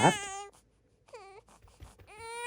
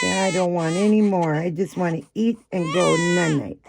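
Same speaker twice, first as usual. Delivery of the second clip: higher, louder mock baby complaint; whining baby; 5 semitones higher, 5 dB louder than usual. Speaking for the crying baby, mock whining. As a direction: play a tired baby protesting.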